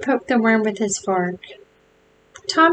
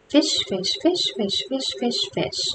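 hushed, softer chant fading to almost nothing; whispered in his ear; 5 semitones higher, 6 dB quieter than usual. A narrator's reading. Tom taunting Billy close to his ear, hushed. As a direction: breathe the words into his ear. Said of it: "whispered in his ear".

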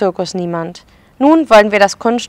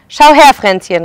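calling out; 3 semitones higher, 5 dB louder than usual. Acted. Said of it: "rief er".

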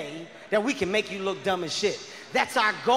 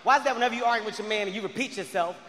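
ordinary talk

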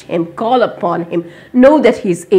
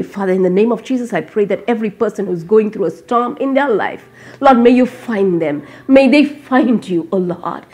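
earnest spoken prayer to the Lord. Real, not acted. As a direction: pray over the listeners. Leads a closing prayer.

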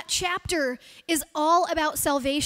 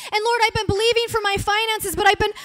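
a higher, louder plea that builds toward a cry; pleading prayer; 4 semitones higher, 4 dB louder than usual. Shown as a demonstration. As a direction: pour out the struggles to God with growing urgency. Demonstrating a prayer under hardship.

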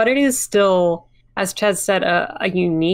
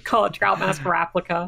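laughing; 4 dB quieter than usual. Real, not acted. Punchline through laughter.

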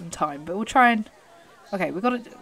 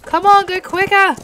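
loud, high-pitched shout to a horse; urgent urging; 10 semitones higher, 8 dB louder than usual. Real, not acted. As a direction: push the horse to speed up.

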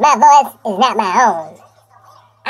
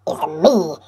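mock sob; 5 semitones lower, 3 dB quieter than usual. Dramatic end of self-made video.

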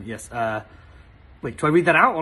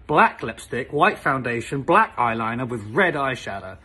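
each word spelled out deliberately; slow repeat; 4 semitones lower than usual. Shown as a demonstration. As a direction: repeat the list slowly for emphasis. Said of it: "For those of you who missed that".

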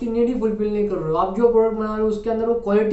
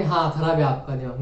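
mock rude agreement; 5 semitones lower than usual. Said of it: "तो ऐसा मत बोलना कि".

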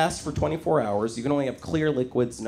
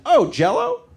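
mock employee; 4 semitones higher, much slower than usual. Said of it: "To which he responded".

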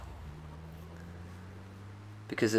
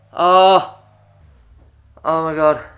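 overjoyed gasp; 6 semitones higher, 11 dB louder than usual. Real, not acted. Relief after finishing mission.

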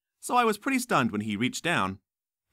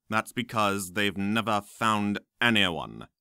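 slow sneering professor; 3 semitones lower, slower than usual. Acted. Smape retorts.

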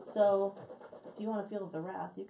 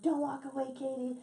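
hammed-up petulant guy scolding her; mock whiny Eddie; 5 semitones higher than usual. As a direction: teller imitating Eddie whining at her to stay. Eddie quoted, angry at her.

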